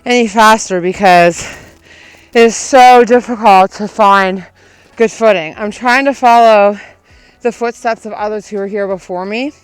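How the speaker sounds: talking while running, loud. Real, not acted. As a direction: speak mid-stride on a run. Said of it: "I literally cannot run any faster".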